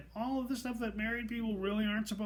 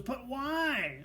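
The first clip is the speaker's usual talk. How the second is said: mock shout; 7 semitones higher than usual. Coworker pressing him again, mock shouting. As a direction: push the pitch up in protest. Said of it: "Again, shouting".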